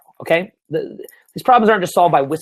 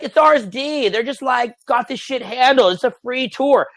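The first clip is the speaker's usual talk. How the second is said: higher, mock-naive voice; breezy, higher-pitched outsider quote; casual onlooker; 7 semitones higher, slower than usual. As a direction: imitate someone who thinks it's all effortless. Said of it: "in your reality, it's like".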